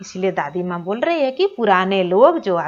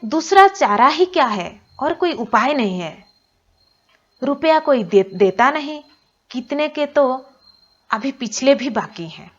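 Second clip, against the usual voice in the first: a lightly voiced father, a bit higher, at a loss; worried father; 4 semitones higher than usual. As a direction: say there is no way out as the father. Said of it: "तो पिताजी बोल रहे हैं".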